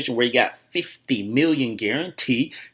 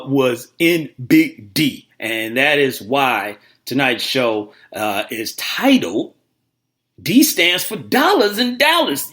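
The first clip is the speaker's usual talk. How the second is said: hyped announcement; 4 semitones higher, 3 dB louder, slower than usual. Real, not acted. Host hypes the big news.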